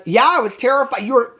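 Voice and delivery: retold scared teen. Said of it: "the singer guy goes".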